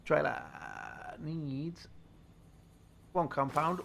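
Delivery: loud call. Real, not acted. Announces item, loud.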